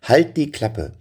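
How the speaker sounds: "Halt die Klappe" said high and bright; surprised quote. Shown as a demonstration. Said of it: "damit hatte ich nicht gerechnet".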